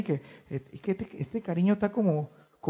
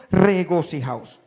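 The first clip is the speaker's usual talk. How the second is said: louder, a firm exclamation; exclaimed; 6 dB louder, slower than usual. Shown as a demonstration. Preacher rereading the verse as it should be read, exclaimed. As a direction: call it out with an exclamation mark. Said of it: "Así se debe leer".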